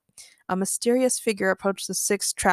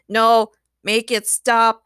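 pained shout; 6 dB louder, much slower than usual. Acted. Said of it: "the android robot shouted".

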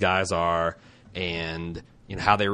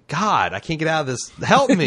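higher, louder mock plea for help; mock exasperation; 7 semitones higher, 4 dB louder than usual. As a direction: plead playfully to be rescued from your own sentence. Stuck mid-sentence, mock plea for help.

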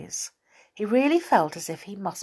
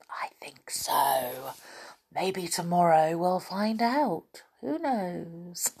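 whispering; 5 dB quieter than usual. Real, not acted. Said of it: "storyteller closing, hushed".

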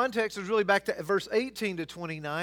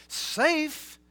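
high, loud, indignant disbelief; acted astonishment, strongly emphatic; incredulous; 5 semitones higher, 5 dB louder, slower than usual. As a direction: scoff at the very question. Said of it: "He's incredulous".

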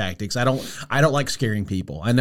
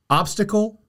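creepy voice; 10 semitones higher than usual. Acted. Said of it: "See, I'm creepy".

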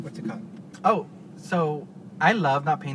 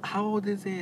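excited gasp; 9 semitones higher than usual. Retold or imitated. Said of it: "they were like".

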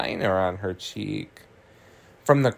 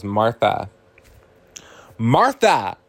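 calling out; 4 dB louder, slower than usual. Retold or imitated. Maddie tries to get Martha's attention, calling louder. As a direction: call her name, then insist.

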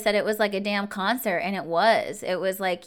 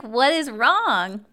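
slow, higher, louder retold question; concerned question; 4 semitones higher, 5 dB louder, much slower than usual. Guard asking a rattled visitor, slow concerned question.

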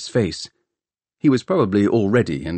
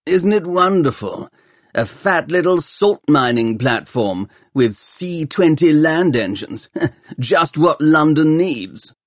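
gloating bully; 7 semitones higher than usual. Acted. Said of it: "a burly first-class apprentice who grinned".

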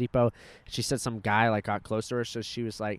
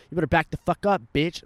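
retold tough-grandma warning, higher and louder; grand-mère qui rembarre; 3 semitones higher, 5 dB louder than usual. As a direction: imitate a feisty grandma warning someone off. Acts out grandma confronting a man.

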